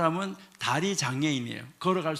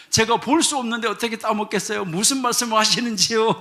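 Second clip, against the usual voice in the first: louder, indignant denial; loud protest; 4 semitones higher, 5 dB louder than usual. Retold or imitated. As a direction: protest loudly, wide-eyed innocent. Blind man protests innocence. (주인에게 큰 소리로 억울한 척 항변)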